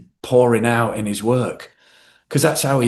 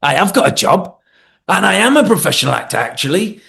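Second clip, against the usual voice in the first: proud announcement. Retold or imitated. Proudly announcing job to parents.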